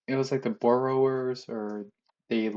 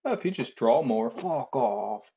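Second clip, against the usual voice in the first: artist brush-off. Retold or imitated. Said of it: "I know what they're gonna say".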